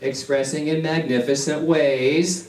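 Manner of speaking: laughing through Expressing in magnificent ways; laughing affirmation. Shown as a demonstration. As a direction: laugh it out joyfully. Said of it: "focus on the different words".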